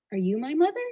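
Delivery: lightly voiced baby bird, questioning upward. Baby bird asking a dog, lightly voiced questioning. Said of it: "he says to the dog".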